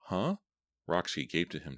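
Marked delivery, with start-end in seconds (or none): 0.1-0.4 high, sharp startled. A narrator's reading. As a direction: caught off guard. Roxy startled.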